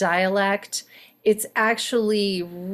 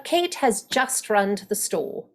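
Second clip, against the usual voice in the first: British accent. Shown as a demonstration. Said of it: "if I'm doing estuary".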